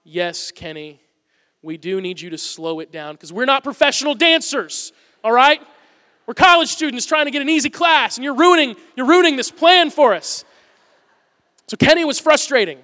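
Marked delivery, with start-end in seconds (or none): 0.0-10.4 exasperated retort. Retold or imitated. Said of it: "And we would say".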